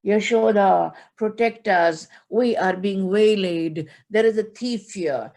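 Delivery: slow, loud cry for help to his parents; child shouting out to Nand Baba and Yashoda; loud, drawn-out alarm call. Acted. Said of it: "As soon as he shouts out".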